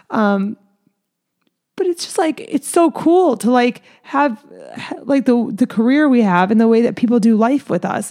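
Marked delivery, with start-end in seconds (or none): 1.8-8.1 teary. Real, not acted. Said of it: "it's making me cry".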